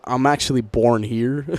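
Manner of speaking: put-on slow laid-back Californian accent. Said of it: "up my Californian accent".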